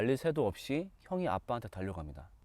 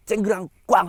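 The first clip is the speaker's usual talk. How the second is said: loud imitated crash and bang; crash sound effect; 7 semitones higher, 10 dB louder than usual. Storyteller mimics the crash from the room, loud sound effect. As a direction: bang it out like breaking glass.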